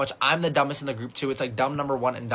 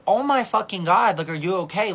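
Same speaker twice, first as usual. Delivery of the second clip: shocked concern; 4 semitones higher, 4 dB louder than usual. Retold or imitated. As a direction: stretch out the horrified exclamation. Shocked reaction to racist abuse.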